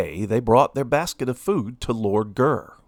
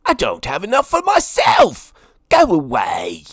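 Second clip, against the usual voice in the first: higher, louder selfish refusal; angry lord; 9 semitones higher, 5 dB louder than usual. A narrator's reading. Lord Gurr refusing Minnie, angry shout. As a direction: shoo her away. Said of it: "cried Lord Gurr".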